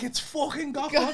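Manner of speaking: giddy fan excitement; starstruck. Retold or imitated. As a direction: savour the celebrity name. Starstruck, retelling his excitement.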